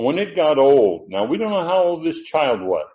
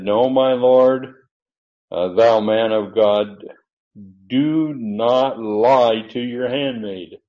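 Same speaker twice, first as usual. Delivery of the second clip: slow, loud protest; pleading protest; 4 dB louder, slower than usual. Acted. Woman protesting to the prophet, slow and loud.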